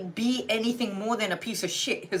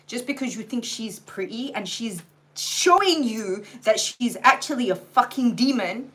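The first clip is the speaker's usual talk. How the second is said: louder, building angry rant; tearing into the listener, louder and angrier; real anger; 3 semitones higher, 4 dB louder than usual. Real, not acted. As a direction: let the real frustration swell as you go. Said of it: "I'm really angry".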